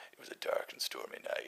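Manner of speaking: hushed noir detective opening line; hard-boiled narrator. Shown as a demonstration. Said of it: "I always want to be some sort of, hard-boiled character".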